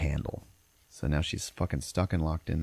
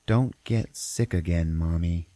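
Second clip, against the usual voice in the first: put-on little kid; slower than usual. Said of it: "then the little kid goes".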